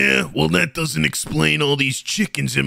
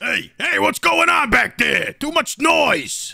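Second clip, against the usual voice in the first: teacher yelling at noise; 8 semitones higher than usual. Acted. Teacher hushing chatter in the back.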